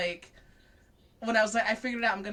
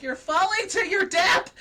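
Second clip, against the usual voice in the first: much higher and louder, half-laughing warning; alarmed yell; 9 semitones higher, 9 dB louder than usual. Retold or imitated. Fan yelling at Reiki mid-race, mock alarm. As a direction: shout a panicked warning at the screen. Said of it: "I'm like".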